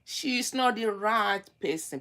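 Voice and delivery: as a stern mother warning her son; mother telling her son. Retold or imitated. Mother loudly warning her son about the wife. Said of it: "I will be the one to tell my son".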